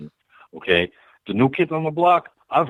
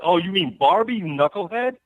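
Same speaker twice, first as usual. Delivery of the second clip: teasing retort; 7 semitones higher than usual. Retold or imitated. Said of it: "I'm like".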